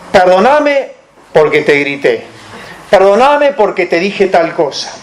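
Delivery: "Perdóname" firme y directo, sin condición; perdón sincero. Shown as a demonstration. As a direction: pedir perdón de verdad, asumiendo la culpa. (perdón sincero y asumido)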